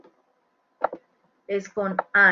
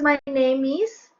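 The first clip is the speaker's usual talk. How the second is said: slow model; 4 semitones higher, slower than usual. Shown as a demonstration. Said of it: "Y la respuesta es".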